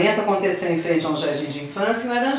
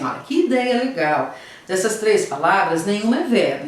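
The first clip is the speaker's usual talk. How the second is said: excited example. Shown as a demonstration. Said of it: "Quando alguém fala assim".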